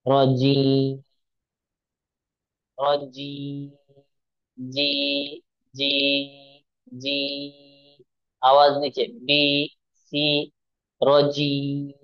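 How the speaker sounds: रजी trailing off, breath released; stopping on rajim. Shown as a demonstration. Teacher showing how to stop on रजीम. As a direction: let रजी fade out on the breath. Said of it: "रुकना हो तो उसे जज्म देकर सांस छोड़ दें".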